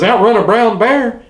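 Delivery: high incredulous echo of the warning; disbelieving, pitch jumps way up. Retold or imitated. Hiker scoffs at his friend's warning, incredulous.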